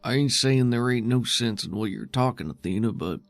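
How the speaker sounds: a hint of a tired, stubborn old fighter; Ton, gruff guard. GM as Ton pushing back on Athena, lightly gruff.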